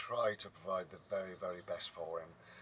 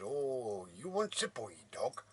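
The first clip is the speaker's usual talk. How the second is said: another mock farmer; 3 semitones higher, slower than usual. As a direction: try out an unconvincing farmer impression. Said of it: "He didn't speak like that either".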